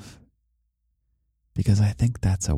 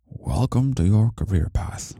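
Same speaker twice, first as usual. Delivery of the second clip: put-on old wise man voice; 4 semitones higher, slower than usual. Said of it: "which was like an old wise man".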